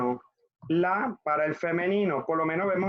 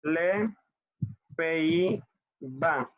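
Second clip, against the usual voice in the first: word by word; much slower than usual. Shown as a demonstration. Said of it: "Vemos aquí que está".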